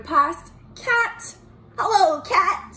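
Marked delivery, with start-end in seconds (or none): 1.8-2.7 high, loud sing-out greeting; cheery high-pitched character hello; Duck. Acted. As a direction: call out hello in a high storybook voice. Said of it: "said Duck".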